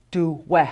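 Du, we, punching the we; stress on second syllable. Shown as a demonstration. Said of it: "the second syllable is always accented".

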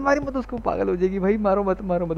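real alarm, pitch jumping high; urgent pleading. Real, not acted. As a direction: stop him before it's too late. Begs teammate not to burn doll.

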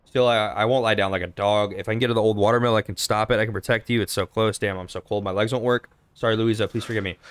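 lightly voiced wounded man; reading a dying note. Player reading a dying hunter's note, lightly voiced. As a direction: read the dying man's letter aloud.

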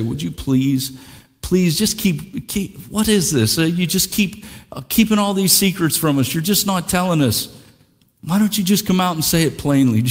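whiny, pleading voice; pestering crowd. Retold or imitated. Preacher mimicking the crowd, mildly whiny and pleading. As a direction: nag him like an impatient crowd.

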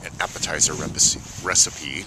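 stiff cold lips fumbling; frozen lips. Real, not acted. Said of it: "Sorry, my lips are frozen".

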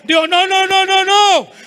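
loud, high string of noes; acted shouted refusal. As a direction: act out an outraged husband refusing. (negativa rotunda a gritos)

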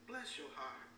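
slow Southern "Bless your heart" with a drawl. Shown as a demonstration. Preacher showing the church a Southern drawl. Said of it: "slow it down and put on a good Southern drawl".

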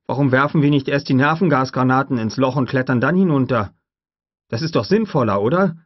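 nervous man begging for a safer plan; frightened pleading. A narrator's reading. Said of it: "rief Gennaro erschrocken". (ängstlich drängend, höher und lauter)

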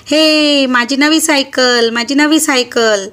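put-on child's delighted cry over a new bicycle; excited exclamation. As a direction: gleefully show off the new bike. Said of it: "Sayali उद्गारली". (नव्या सायकलचा आनंदाने उद्गार)

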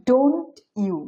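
don't you run together as "donchu"; assimilated don't you. Shown as a demonstration. Teacher showing learners how natives say it, don't you blended into "donchu". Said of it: "এটা উচ্চারণ করবে".

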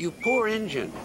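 high-pitched, commiserating tone; mildly exaggerated sympathy; sympathetic. A narrator's reading. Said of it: "sympathized James".

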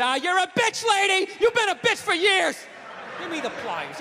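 mock angry dad. Comic doing his dad yelling at mom, mock rant.

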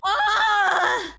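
sudden shouted ah; a short real scream. Real, not acted. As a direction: let out a full scream. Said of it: "that tweet right there you just screamed out".

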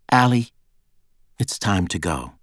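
mildly gentle prompt. A narrator's reading. Bodyguard telling her young charge to leave, gentle. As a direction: call the name, then ease down into a gentle nudge. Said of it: "Nina said gently".

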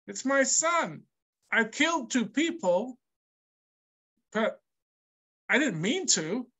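facetious questioning. Retold or imitated. Teacher voicing Lamech pleading with his wives, mock incredulous. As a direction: protest with wide-eyed mock innocence. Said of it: "he's saying it facetiously, questioningly".

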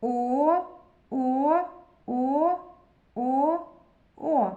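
each О held alone with a pause after it; reading the letter. Shown as a demonstration. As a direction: chant О as separate, sustained vowels. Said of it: "Давайте прочитаємо букву О".

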